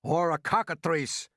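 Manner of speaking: loud, drawn-out alarmed cry; yell. A narrator's reading. Police chief topping the fire chief's guess, yelling. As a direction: yell your own guess. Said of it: "yelled the chief of police".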